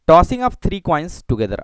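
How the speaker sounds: very slow, drawn out; slow dictation. Shown as a demonstration. Teacher dictating the experiment to students, slowly. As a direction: say it slowly as you write. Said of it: "धीरे धीरे मैं पढ़ रहा हूँ".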